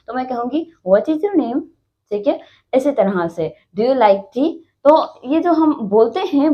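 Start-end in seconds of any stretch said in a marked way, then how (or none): 0.9-1.6 "What is your name?" asked as a mild question; questioning tune. Shown as a demonstration. Teacher showing how a question sounds, questioning tune. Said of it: "question पूछना चाह रही हूँ". 3.8-4.5 "Do you like tea?" asked as a mild question; questioning tune. Shown as a demonstration. Teacher showing how a question sounds, questioning tune. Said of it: "अंदाज से पता चल जाता है कि हम सवाल पूछ रहे".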